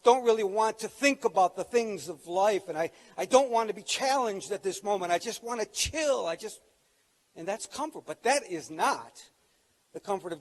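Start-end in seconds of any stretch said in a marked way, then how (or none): 0.0-6.6 half-sung, lazy mock comfy voice; lightly hammed-up lazy plea; mock self-indulgent whine. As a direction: imitate someone who just wants to chill. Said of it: "what a lot of people think of comfort today".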